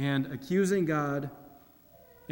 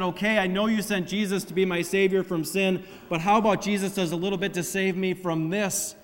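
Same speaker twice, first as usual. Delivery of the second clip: overthinking complaint; 3 semitones higher, 4 dB louder than usual. Retold or imitated. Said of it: "overthinking everything and said".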